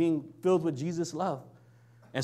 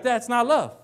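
indignant retort; 6 semitones higher, 4 dB louder than usual. Retold or imitated. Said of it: "You'd be like".

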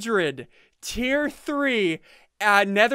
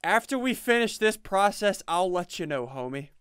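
sad voice; 3 semitones lower, 4 dB quieter than usual. Pretend. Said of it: "don't use your sad voice on me".

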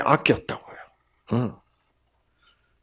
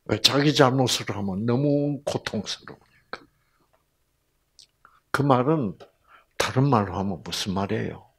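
ordinary delivery

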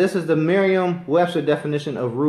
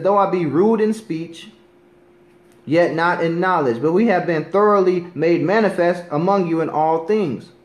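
scripture reading. Acted. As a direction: read the verse out deliberately, with weight. Reads verse again.

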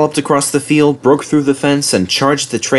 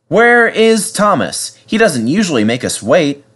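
fussing; 7 semitones higher than usual. A narrator's reading. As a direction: fret over someone being late. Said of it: "fussed Edward".

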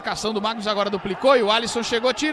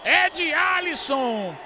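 long, stretched, high goal yell; explosive goal commentary; 9 semitones higher, 9 dB louder than usual. Real, not acted. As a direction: build up fast, then hold the goal cry. Goal call. (narração de gol explosiva)

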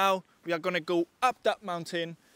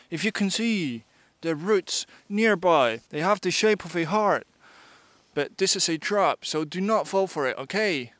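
Bear Grylls. Pretend. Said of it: "This is Bear Grylls".

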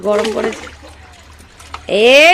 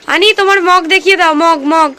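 coaxing call; 6 semitones higher than usual. Real, not acted. Calling child about mug. (শিশুকে আদুরে ডাক)

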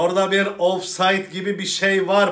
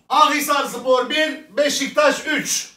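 slow score announcement; 8 semitones higher, 4 dB louder than usual. Acted.

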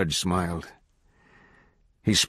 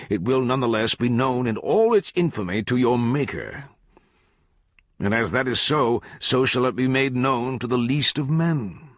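measured, oratorical judge pronouncing guilt; lightly voiced judge laying out an indictment; accusing judge; 4 semitones higher than usual. Judge to the jailed kid, oratorical accusation.

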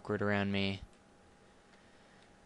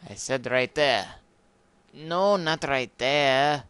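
loud drawn-out protest, pitch rising; hammed-up indignant correction; mock exasperated scolding; 4 semitones higher, 8 dB louder than usual. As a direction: scold the game in a silly put-on voice. Mock scolding over block placement.

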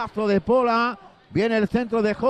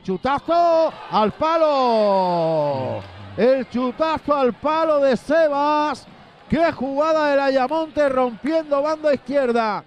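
high, stretched near-miss call; excited near-miss call; 4 semitones higher, slower than usual. Real, not acted. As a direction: rise with the shot. Shot hits the post.

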